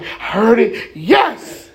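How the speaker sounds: acted joyful cry, rising on "yes". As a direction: receive it with an eager burst. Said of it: "receive it in joy".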